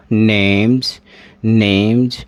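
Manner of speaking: नेम्स said as "nemj"; voiced j ending. Shown as a demonstration. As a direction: close नेम्स on a buzzed j. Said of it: "क्या हो जाएगा?".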